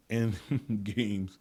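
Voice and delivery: usual speaking voice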